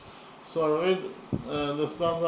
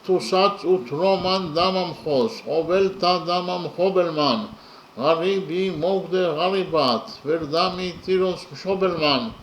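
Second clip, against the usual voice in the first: poem recitation. Acted. Recites the stanza in Georgian.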